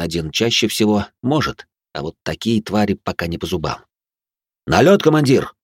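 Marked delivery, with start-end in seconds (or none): 4.7-5.5 urgent report. A narrator's reading. Soldier reports incoming raid.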